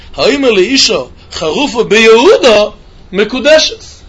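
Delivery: slow, drawn-out Gemara chant; slow Gemara reading. Shown as a demonstration. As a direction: read each word of "Ha'omer le'isha charufa beYehuda mekudeshes" slowly, like reciting the text. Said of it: "I'm doing in the Gemara".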